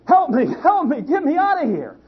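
high-pitched panicked cry; mock scream for help. Trapped performer in gorilla suit begs the crowd, mock screaming. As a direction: plead for rescue in a high, hammed-up scream. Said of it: "he started screaming out".

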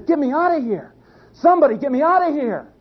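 high, pleading cry; urgent mock panic. Trapped performer begs crowd as lion rises, urgent mock panic. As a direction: beg urgently in a high-pitched, hammed-up voice. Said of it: "he's even more urgent".

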